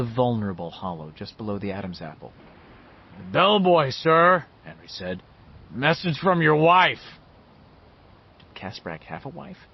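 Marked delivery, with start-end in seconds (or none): 3.2-4.5 high, loud call through a door; posing as bellboy. A narrator's reading. Calls through a closed door. 5.7-7.2 loud, high, slowly drawn-out call; posing as bellboy. A narrator's reading. Calls through a closed door.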